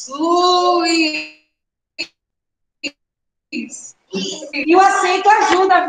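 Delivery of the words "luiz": "Luiz" drawn out long and slow; syllable by syllable. Shown as a demonstration. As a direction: stretch both vowels of "Luiz" to show the syllables. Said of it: "a sílaba mais forte?". ("Luiz" alongado, sílaba por sílaba)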